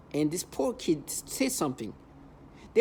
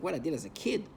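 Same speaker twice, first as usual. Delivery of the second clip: incredulous echo question; 5 dB quieter than usual. Retold or imitated. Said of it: "It's like".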